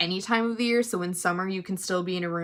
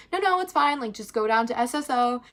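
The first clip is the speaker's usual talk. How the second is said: high-pitched imitation of a soothing teacher; mock-reassure a nervous student, pitched up; airy high teacher take-off; reassuring teacher; 4 semitones higher than usual.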